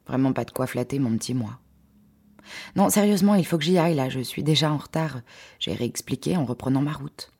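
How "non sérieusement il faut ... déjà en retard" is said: insistent refusal. Acted. Pressing refusal to a stalker.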